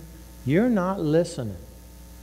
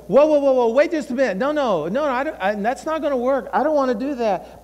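resisting inner voice; 6 semitones higher than usual. Retold or imitated. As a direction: push back like a balking inner voice. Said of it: "there's all these other voices".

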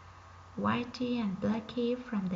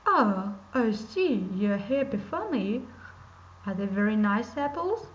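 a louder, sly wolf character; 4 dB louder than usual. Acted. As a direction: voice the scheming wolf, a bit louder.

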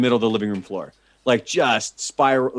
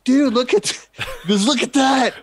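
laughing; 13 semitones higher than usual. Retold or imitated. Buddy laughing at the mess.

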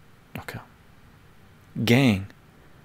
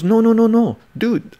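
high, loud no no no; a colleague shouting no no no dude; loud insisting; 13 semitones higher, 7 dB louder than usual. Retold or imitated. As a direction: insist over the phone, voice up high.

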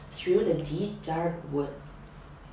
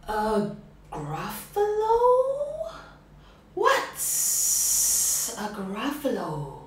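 slow drawn snake voice; 4 dB louder, slower than usual. Acted. Snake asking the mouse, slow and drawn. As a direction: hiss out the question.

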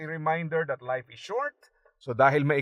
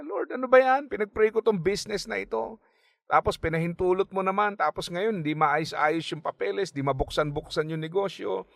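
high-pitched, aggrieved griping at God; imitating angry complaint; 5 semitones higher than usual. Friend griping to the Lord about the business, mock angry. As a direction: voice the friend's frustrated outburst, pitched up. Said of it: "Galit na galit po siya sa Panginoon".

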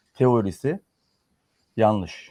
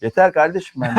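fed-up outburst, louder and higher; exasperated; 5 semitones higher, 6 dB louder than usual. Real, not acted. Commentator fed up with opposition's claims, exasperated. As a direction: burst out that you've had enough. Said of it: "Dur, sinirlenme ya".

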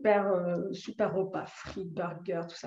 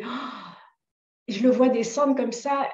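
ordinary talk, nothing marked

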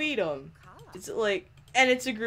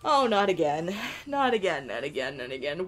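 fading dismay; 5 semitones lower than usual. Real, not acted. Gamer sighing at her Sims, fading dismay. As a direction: groan it out, dying away to a mutter.

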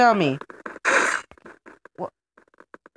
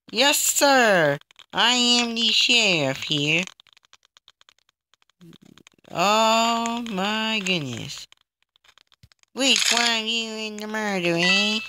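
drawn-out mock cowboy sheriff drawl; cowboy accent; slower than usual. Player posing as the sheriff, attempted cowboy accent. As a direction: try a slow cowboy accent. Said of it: "I need to make that cowboy accent".

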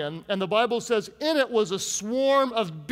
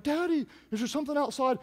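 put-on child's voice; 5 semitones higher, 4 dB quieter, faster than usual. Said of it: "my kids were like".

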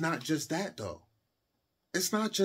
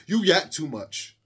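slow, drawn-out mocking repeat of "You yap too much."; mocking commenter; slower than usual. Reading a viewer's comment back, slow and mocking. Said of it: "I saw a comment in the last video said".

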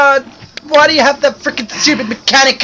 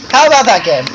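louder take; faster than usual. Shown as a demonstration. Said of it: "How would you like me to say".

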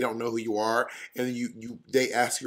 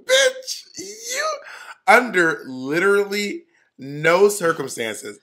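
shrieked then slow loud denial; shriek, then drag out the denial; shocked disbelief; 6 semitones higher, 5 dB louder, much slower than usual. Real, not acted. Disbelief at Oprah claim.

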